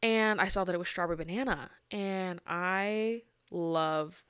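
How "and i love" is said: slow, burp-held words; talking through a burp; holding in a burp. Real, not acted. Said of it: "sorry, I had to burp".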